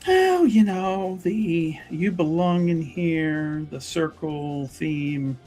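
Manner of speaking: slow, drawn-out hedging; awkward hedging. Acted. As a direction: stretch the words while searching for an answer. Character awkwardly explains her suspicion.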